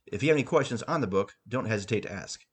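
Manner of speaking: ordinary delivery, nothing marked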